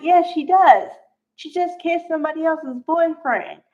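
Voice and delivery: indignant mock reply; exasperated retort. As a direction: snap back as if she obviously must. Snapping back at the character.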